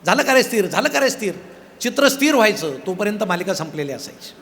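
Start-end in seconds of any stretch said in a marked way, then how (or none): 0.0-0.7 calling out. Retold or imitated. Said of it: "तो ओरडायचा". 0.7-1.3 retold shouting. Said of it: "तो ओरडायचा".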